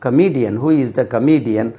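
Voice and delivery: Comedian said "kuh-MEE-dian"; long ee in the middle of Comedian; correct comedian. Shown as a demonstration. Teacher models it in a question, careful pronunciation. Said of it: "கமெடியன் சொன்னோம்".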